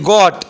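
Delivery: ગોટ with one o vowel. Shown as a demonstration. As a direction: say OA in ગોટ as a single o. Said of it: "આમ ઉચ્ચાર થશે".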